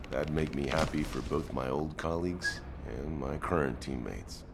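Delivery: subdued, low-pitched reflection; remorseful admission. Acted. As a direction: confess it softly, sinking at the end. Admitting mistake, thinking of dead colleagues.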